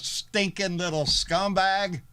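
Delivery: slow sneering taunt; mocking taunt. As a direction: drag out the insult mockingly. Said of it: "Using the same line".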